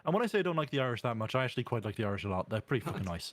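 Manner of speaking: put-on Irish accent. Shown as a demonstration. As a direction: demonstrate a general Irish accent. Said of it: "They've got, they've got a good Irish accent".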